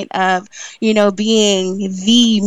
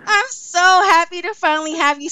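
laughing; 7 semitones higher than usual. Real, not acted. Gushing welcome with laughter.

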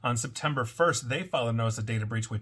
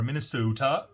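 put-on a light, joking take on a Minnesotan accent, with the long drawn O; mock Minnesotan accent. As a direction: say Minnesota the way the locals would, half-teasing. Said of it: "That's a horrible accent".

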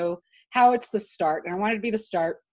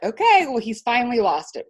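mock exasperation; 4 dB louder than usual. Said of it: "And we're like".

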